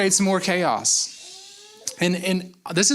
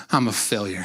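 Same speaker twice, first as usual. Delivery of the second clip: despairing Joseph; 8 semitones lower than usual. Retold or imitated. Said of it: "he was just going".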